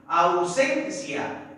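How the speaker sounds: "Ausencia" very slow, leaning on the middle syllable sen; stressed syllable demo. Shown as a demonstration. Teacher helping pupils find the strongest syllable, slowly sounding out Ausencia. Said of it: "¿Dónde está la mayor fuerza de voz?".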